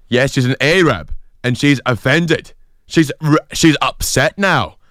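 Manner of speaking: imitated aggrieved Irish fella, drawn out; angry Irishman. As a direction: spell out the grievance in an Irish accent. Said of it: "an Irish person is angry".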